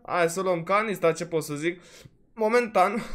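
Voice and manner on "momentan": cracking, strained voice; the voice fails on the word Momentan; voice giving out. Real, not acted. Gamer's voice breaking mid-commentary, Momentan cracking. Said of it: "momentan mă lasă vocea".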